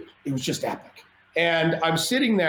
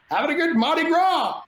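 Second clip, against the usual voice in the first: high, whooping retold reply; gleeful party cheer; 11 semitones higher than usual. Partier answering his scolding brother, gleefully high-pitched. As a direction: crow it like a carefree reveler.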